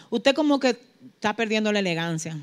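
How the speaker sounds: dropping to a soft, low hush; soft aside. Real, not acted. Preacher quietly advising women in church, softly. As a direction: lean in and say it gently.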